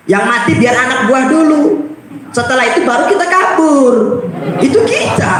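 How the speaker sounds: high laughing jab; laughing mockery. Real, not acted. The preacher laughs at cowardly leaders, high and mocking. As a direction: laugh at our own cowardice.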